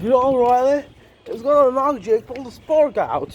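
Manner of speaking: put-on English accent held on every word. Voicing people's predictions about a boxing match, in an imitated british accent. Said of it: "I'm talking in the English accent".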